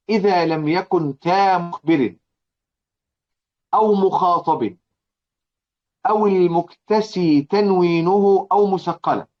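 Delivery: slow, measured chanting of the poem line; verse recitation. Acted. (تلاوة بطيئة لبيت الشعر)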